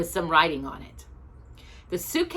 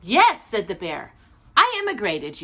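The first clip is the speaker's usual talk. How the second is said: lightly voiced bear; 5 dB louder than usual. Bear answers proudly.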